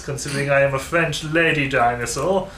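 lightly put-on British gentleman; British manly voice. Player puzzled by own lizard lady's voice, mock British manly voice. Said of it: "speaking in such a British manly voice".

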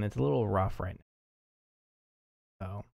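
drowsy, drifting words; sleepy, half-awake delivery; nodding off. Real, not acted. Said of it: "I'm falling asleep".

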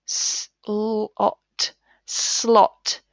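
"S, l, ot" split, then "slot" blended; sounding out. Shown as a demonstration. Teacher blending the word slot for pupils. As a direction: sound each part, then join. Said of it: "It's got the short O sound".

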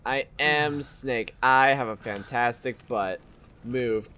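slow, low, soft heroic declaration; dramatic hero voice. Shown as a demonstration. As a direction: say it like a gruff action hero. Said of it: "repeated as dramatic claim".

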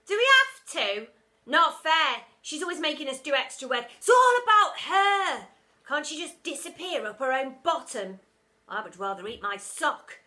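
put-on high, loud whiny children; whiny kids.

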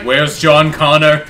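slow, loud robotic killer voice; Terminator robot voice. Retold or imitated. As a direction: deliver it like a cold cyborg. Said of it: "What if you were a robot".

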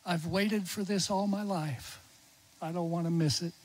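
a mild hushed imitation of a whisper; softly whispered. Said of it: "he whispered very softly".

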